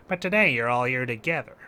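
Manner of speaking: put-on the line re-read without the mobster accent; changed character voice. Fighter facing the mob works out their plan, changed character voice. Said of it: "it's abrupt change of voice acting".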